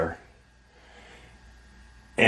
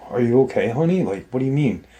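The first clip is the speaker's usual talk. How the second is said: a touch of a higher, anxious mom voice; lightly voiced concerned mother; worried mom; 4 semitones higher, faster than usual. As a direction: ask like a worried mother checking on a child. Mother comforting scared boys.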